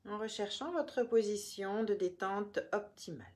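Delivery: measured meditation voice with long pauses between phrases; guided relaxation. Real, not acted. Yoga teacher guiding listeners through the body, calm guided relaxation.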